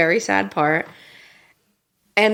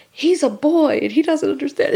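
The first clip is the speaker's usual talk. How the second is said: higher, tearful retold quote; imitating Derek crying; 8 semitones higher than usual. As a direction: echo Derek choking up over the book. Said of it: "And Derek is sobbing".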